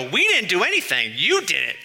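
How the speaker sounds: put-on protesting kids. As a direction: push the blame back like a mock indignant kid. Acted kids objecting to parent.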